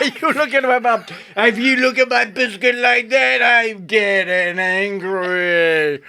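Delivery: hammed-up New York tough guy; mock gangster. Mocking a Goodfellas gangster, New York accent. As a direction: play the wise guy, menacing. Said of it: "this wise guy".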